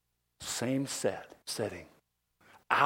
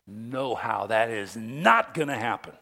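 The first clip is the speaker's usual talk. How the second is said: insistent; 6 dB louder, slower than usual. Acted. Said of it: "and Peter insists".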